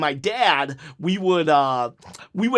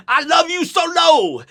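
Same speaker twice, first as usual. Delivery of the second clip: excited shout; 11 semitones higher, 6 dB louder than usual. Real, not acted. Fan shouting love for the wrestler, high and loud.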